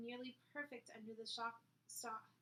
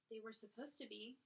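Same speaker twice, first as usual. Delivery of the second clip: cold; 4 dB quieter than usual. Acted. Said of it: "in the coldest voice she could manage".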